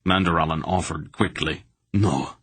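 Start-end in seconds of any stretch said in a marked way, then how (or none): 1.9-2.4 panting. Acted. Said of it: "Barak panted".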